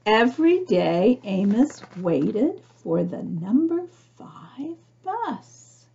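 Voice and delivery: put-on gentle read-aloud narration for children; storybook reading. A narrator's reading. Reading picture book aloud.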